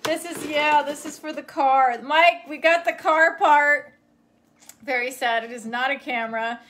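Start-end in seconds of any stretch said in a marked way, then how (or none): 2.0-3.9 slow, loud call to another room; drawn-out call to Mike. Real, not acted. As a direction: call out the news across the house. Calling to someone in another room.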